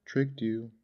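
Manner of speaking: high-pitched gleeful taunt. A narrator's reading. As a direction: crow it like a boy pleased with his trick. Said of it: "laughing and clapping his hands".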